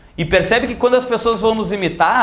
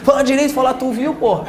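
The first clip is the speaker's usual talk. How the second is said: mock scolding; 5 semitones higher than usual. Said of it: "Tu quer que o cara fale errado".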